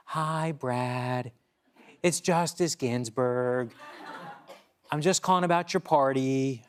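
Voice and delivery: lightly voiced little old lady; a hint of a sweet old lady; elderly singsong. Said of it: "this little old lady voice".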